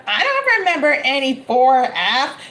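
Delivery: mock snooty neighbor who won't remember you; snooty old neighbor. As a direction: brush them off like a cranky grandma.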